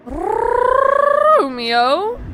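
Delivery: long high sung-out call of the name; calling out Romeo. Real, not acted. Caster calling out a racer's name, a long high call.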